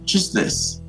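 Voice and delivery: menacing whisper. Acted. Veiled threat continues.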